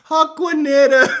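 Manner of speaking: high laughing yell; shouted name. Real, not acted. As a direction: yelp the name in disbelief.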